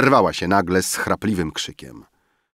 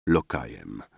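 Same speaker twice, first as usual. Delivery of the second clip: put-on muttered drunkenly; 8 semitones lower, 7 dB quieter than usual. Drunk muttering after shouting.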